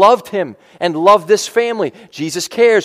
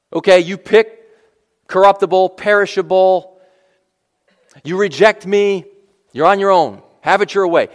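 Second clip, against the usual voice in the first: God's voice; 2 semitones higher, 3 dB louder than usual. Retold or imitated. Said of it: "God could have said that".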